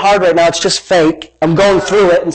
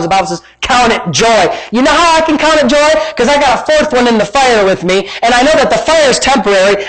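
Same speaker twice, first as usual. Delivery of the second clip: raised, excited sermon voice; fired-up preaching; 5 semitones higher than usual. Real, not acted. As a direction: preach the verse with rising zeal. Preaches on joy with energy.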